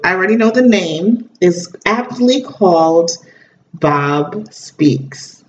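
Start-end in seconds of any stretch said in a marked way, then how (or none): 3.7-5.4 dramatic announcer. Shown as a demonstration.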